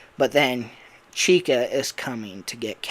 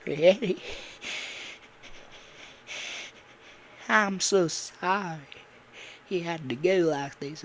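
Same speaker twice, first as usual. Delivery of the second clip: mock emotional; 4 semitones higher, 5 dB quieter than usual. Bonnie apologising to Freddy, emotional. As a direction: act out a mildly tearful goodbye. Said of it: "like, emotional scene".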